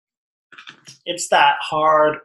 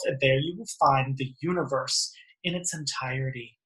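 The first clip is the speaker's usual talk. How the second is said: reading the card's words with gentle weight; oracle card reading. Acted. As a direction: lightly read out like an affirmation. Reads oracle card aloud.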